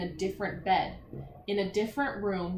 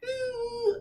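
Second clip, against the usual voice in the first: excited ooh; 13 semitones higher than usual. Shown as a demonstration. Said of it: "or was she like".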